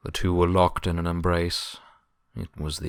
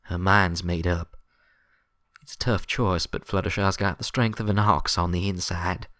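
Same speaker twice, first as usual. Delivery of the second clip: grim; 2 semitones higher, 3 dB louder than usual. Acted. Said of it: "Applejack's voice was grim".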